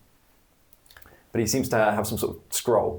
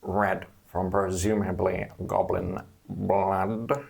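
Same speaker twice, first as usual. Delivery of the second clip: serpent voice. Acted. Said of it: "the serpent voice".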